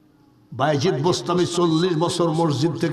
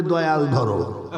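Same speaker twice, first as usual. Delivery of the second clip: slow, drawn-out smoker's invocation; lower, lazy mock invocation; imitated ganja smoker; 4 semitones lower, slower than usual. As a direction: stretch it out after a long drag. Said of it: "একেবারে টান মাইরে বলবে".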